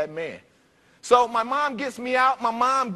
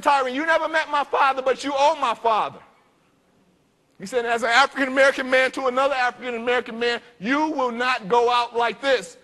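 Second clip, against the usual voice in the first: higher and louder, a stern father laying down the law; stern rebuke; 4 semitones higher, 4 dB louder than usual. Retold or imitated. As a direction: warn him hard, no room to argue. Deacon scolds boy in car.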